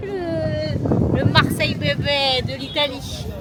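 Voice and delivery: light put-on Italian accent; joking Italian accent. Vlogger jokes about Naples in a mild Italian accent. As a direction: tease them in a playful Italian accent. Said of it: "il faut qu'on arrête de faire des accents".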